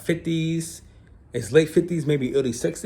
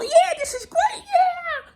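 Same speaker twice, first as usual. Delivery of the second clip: stoked hippie dude; slower than usual. Retold or imitated. Hippie instructor hyping the jumper mid-fall, in a high shouted dude voice. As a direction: ham up the laid-back hippie yelling with joy. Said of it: "hyping me on".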